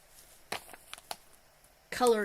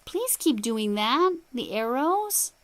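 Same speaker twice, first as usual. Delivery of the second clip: loud, slow, drawn-out begging; dramatic plea; 5 semitones higher, 9 dB louder, slower than usual. Acted. Crafter begging the yarn maker about arrows, dramatic plea. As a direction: plead emphatically, pitch climbing.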